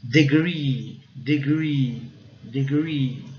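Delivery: "Degree" with a rounded R and long ee; "degree" slowly modelled, final ee held; imaginary U in R. Shown as a demonstration. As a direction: say "degree" as "de-grweee". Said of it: "como se fosse um U imaginário".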